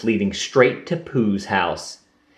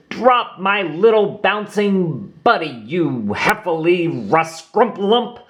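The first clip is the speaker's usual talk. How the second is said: battle cry; 8 semitones higher than usual. Acted. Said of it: "cried Tigger".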